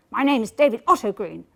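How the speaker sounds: clipped and annoyed, half-acted; angry refined voice on the phone. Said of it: "Very angry voice".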